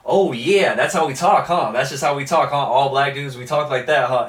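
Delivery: mock indignant quote. Podcaster re-enacting a movie scene for his co-host, mock sarcastic. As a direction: needle him, half laughing. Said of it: "Brandon T. Jackson's like".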